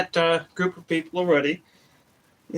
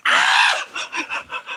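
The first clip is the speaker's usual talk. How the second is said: startled scream. Retold or imitated. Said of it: "she looked over the flashlight and went".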